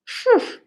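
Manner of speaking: a high breathy phew of relief; relieved phew. Real, not acted. Reader relieved after a tricky tongue twister, phew. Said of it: "that was tricky to say".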